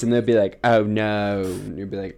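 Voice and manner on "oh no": loud mock British reality-show contestant; British accent. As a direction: ask it loudly in a put-on British accent. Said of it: "that was an amazing, um, accent".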